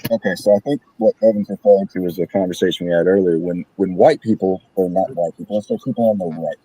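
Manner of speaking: muffled mic, like through a wall. Real, not acted. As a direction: voice muffled, far in background. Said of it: "you sound like you, like, muffled in the background".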